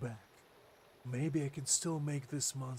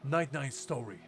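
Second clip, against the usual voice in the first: dry, mocking retort, louder; sarcastic; 2 semitones higher, 5 dB louder than usual. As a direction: sneer out each request. Voicing a sarcastic NPC reply.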